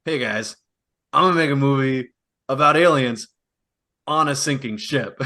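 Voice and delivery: James Cameron impression. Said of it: "James Cameron in the twenty twenties".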